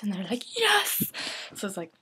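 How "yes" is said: high, loud eager yes; excited yes. Retold or imitated. Friends gushing over her short hair, high and loud. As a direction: gush it enthusiastically.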